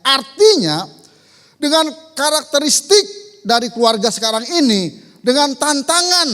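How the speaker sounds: loud, high, emphatic proclamation; forceful preaching. Acted. Preacher explaining today's family challenges to congregation, forceful preaching. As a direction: drive the point home to the congregation.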